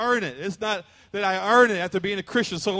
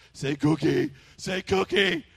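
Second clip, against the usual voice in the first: coaxing a dog; 3 semitones lower, slower than usual. Retold or imitated.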